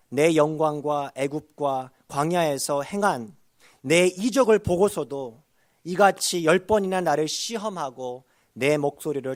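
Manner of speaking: loud, measured Bible reading; forceful pulpit recitation; scripture reading. Acted. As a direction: proclaim the verse, loud and deliberate. Reads scripture aloud to congregation.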